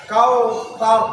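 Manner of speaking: কাউ তার with the last r left vowelless; sakin at pause. Shown as a demonstration. Teacher shows stopping at verse end, কাউ তার ending on a silent-vowel r. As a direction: close কাউ তার on a bare r, no vowel after it. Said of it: "সেটাকে সাকিন করে দিতে হয়".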